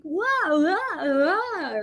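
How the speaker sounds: high bubbly "wow" like an overly happy American; mock American cheer. Shown as a demonstration. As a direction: toss off a sky-high chirpy "wow". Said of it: "It sounds very happy to be alive".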